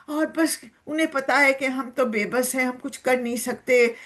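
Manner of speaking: lightly voiced cow, a touch aggrieved; complaining cow. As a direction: play the cow pouring out her woes. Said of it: "دکھا رہی ہے". (ہلکی سی شکایتی گائے کی آواز)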